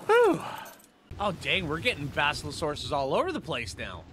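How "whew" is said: short, high, loud whew. Real, not acted. Gamer waiting up top, high loud whew. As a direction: let out a high-pitched whew. Relief during game play.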